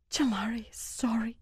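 high, hushed and meek; almost whisper a timid apology; near whisper. A narrator's reading. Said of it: "she almost whispered".

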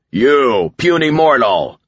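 high, slow, booming villain call; menacing shout. A narrator's reading. Alien warlord singles out the narrator, shouting. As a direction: hurl each word at the puny human.

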